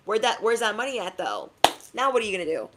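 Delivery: a touch of a nagging friend, high then dropping on though; lightly voiced pushy question; double energy nagging. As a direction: poke at them with each though. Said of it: "double energy is like".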